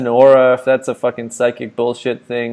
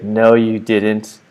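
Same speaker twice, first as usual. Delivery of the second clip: slow, knowing psychic voice; the psychic insisting slowly; fortune teller; much slower than usual. Retold or imitated. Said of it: "And he's like".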